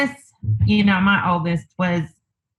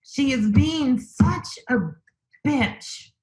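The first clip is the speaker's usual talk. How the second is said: retold angry remark; 6 semitones higher, slower than usual. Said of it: "And I remember saying".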